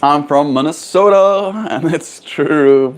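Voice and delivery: put-on playfully drawn-out Minnesotan accent; stretched, mock Minnesotan vowels. Jokingly playing up Minnesotan accent.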